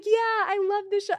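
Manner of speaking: high, loud gush, mimicking a fan; retold eager fan. Husband gushes to his idol, high, loud and eager. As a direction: play along far too keenly, voice shooting up. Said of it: "he's going along".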